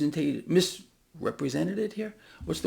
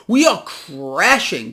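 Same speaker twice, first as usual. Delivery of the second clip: We are crashing, louder and slower; louder repeat; 6 dB louder, much slower than usual. Real, not acted. Hammering home the crash to viewers, loud and slow. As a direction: push "We are crashing" out with force.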